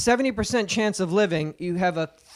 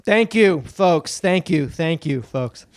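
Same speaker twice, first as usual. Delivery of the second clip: Jay Leno; 3 semitones lower, much slower than usual. Retold or imitated. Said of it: "Do Leno".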